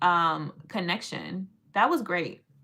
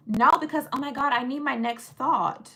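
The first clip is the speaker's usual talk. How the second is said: higher, hammed-up helplessness; mock panic; 4 semitones higher than usual. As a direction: pretend your mind has gone blank. Parodies someone needing ChatGPT to think.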